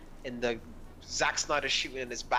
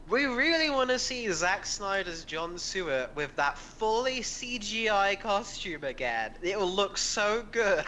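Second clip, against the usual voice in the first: higher-pitched imitation of gushing fans; mock excited fans; 4 semitones higher than usual. Podcaster mocking fans wanting the CGI costume, gushing eagerly. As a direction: gush like an over-eager fan. Mimics fans' new clamour.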